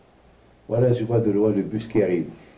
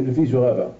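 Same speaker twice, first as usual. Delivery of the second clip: ordinary talk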